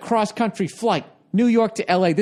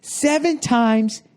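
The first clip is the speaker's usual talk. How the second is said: slow repeated scold; 5 semitones higher, much slower than usual. Retold or imitated. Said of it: "he goes".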